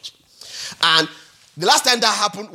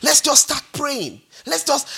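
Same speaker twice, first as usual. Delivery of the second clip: upbeat rallying call; 6 semitones higher than usual. Retold or imitated. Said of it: "I'm always".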